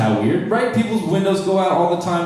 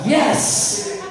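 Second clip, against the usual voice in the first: very high cheer; excited yelp. Retold or imitated. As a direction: shout a gleeful yes. Cheering his city.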